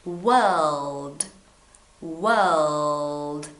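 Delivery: World the British way, R barely there, L clear; British English. Shown as a demonstration. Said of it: "teach you in British English".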